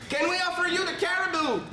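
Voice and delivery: put-on French English accent. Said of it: "Parle avec un accent british".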